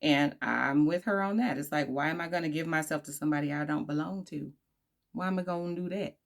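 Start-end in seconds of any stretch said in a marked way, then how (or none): 5.1-6.2 a touch of Southern accent. Real, not acted. Vlogger slipping into dialect mid-commentary, light down south accent. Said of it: "that was my down south accent".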